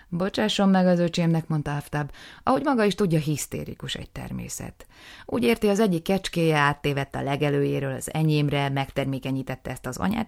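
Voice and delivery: loud, patronising explanation; condescending older brother. Acted. Aftab to the justice, loud and patronising. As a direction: talk down to the justice about him.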